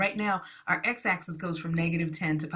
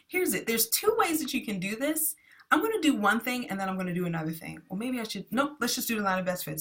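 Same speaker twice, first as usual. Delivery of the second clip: rushing ahead, pitch jumping higher, quicker pace; eager teacher racing ahead; excited; 4 semitones higher than usual. Real, not acted. Teacher rushing through graphing steps to class, excited and fast. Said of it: "Sorry, I was getting excited".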